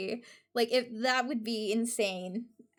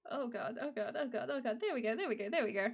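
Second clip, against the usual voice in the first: muttered fluster; 7 dB quieter, much faster than usual. Real, not acted. Hurriedly fixing stream settings.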